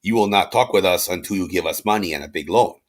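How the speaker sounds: lightly put-on French accent; mock French agent with a haughty "ha, ha, ha". French agents demanding money from envoys, in a put-on French accent. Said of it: "my best French accent".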